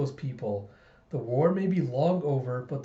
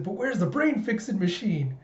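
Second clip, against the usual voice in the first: put-on higher childlike question; puzzled child; 6 semitones higher than usual. Child searches papa's consultation room, puzzled. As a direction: ask like a curious little kid. Child hunts for imagined machine.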